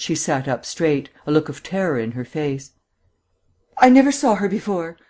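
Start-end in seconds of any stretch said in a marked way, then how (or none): 3.8-5.0 higher, louder woman's outburst; alarmed, emphatic protest; crying out. A narrator's reading. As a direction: cry out the denial, pitch jumping up. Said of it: "she cried".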